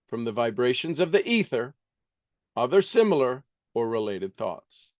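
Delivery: quick, earnest reading aloud from a self-help book; reading a self-help classic aloud. Acted. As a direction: read the passage briskly like scripture.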